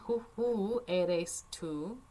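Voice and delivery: who eres tú drawn out slowly; slow reading. Shown as a demonstration. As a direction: stretch it for the class. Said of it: "¿quién?".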